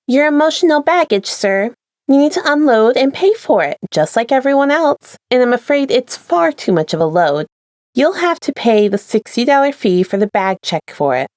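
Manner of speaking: high, sugary customer-service voice; chipper attendant. Acted. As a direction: cheerfully deliver bad news. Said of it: "she responded, chipper".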